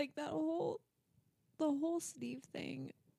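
crying, tearful words. Speaker, told by a listener that they're crying, keeps talking while crying. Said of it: "you're actually crying".

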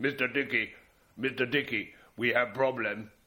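gruff, very slow call. Retelling Dickie Bird's story of a voice calling from the distance, gruff voice of Kirtley. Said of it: "the gruff voice of Kirtley in the distance".

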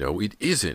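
hot, furious, sharp angry outcry. James contradicts Callie, screaming angrily. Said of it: "James screamed angrily".

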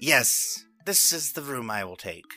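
yelling out loudly. Voicing Chandler claiming a room from behind a door: yelling out. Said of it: "you hear him yell out".

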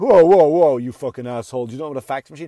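mock offended, affronted, indignant outburst. Retelling a reaction to young audiences who don't know fax machines: mock offended. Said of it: "I gotta act all offended".

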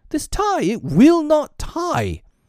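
full-on, very high, drawn-out yell. Narrator voices a father rushing into the nursery, yelling. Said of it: "He really yelled".

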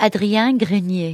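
name pronounced the French way, French accent. Asked by another speaker to say a name in her accent: French accent. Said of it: "Can you say Adrienne Grenier in your accent?".

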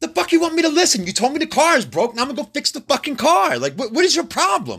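mock very high-pitched, furious yelling outburst. Retelling an argument with his ex-wife: imitating himself yelling. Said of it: "So I would start yelling".

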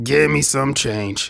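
very slow, drawn-out begging voice. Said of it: "sound like one of them homeless men".

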